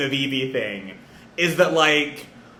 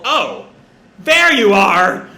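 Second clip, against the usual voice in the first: pleased, drawn-out recognition; light, happy exclamation, rising in volume; happy little greeting; 3 semitones higher, 5 dB louder, much slower than usual. Retold or imitated. Luffy spotting friends on shore, happy little greeting. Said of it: "with a happy little".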